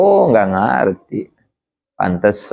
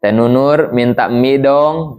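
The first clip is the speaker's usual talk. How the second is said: put-on whining child; slower than usual. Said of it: "gitu kata si Tim-Tim ya".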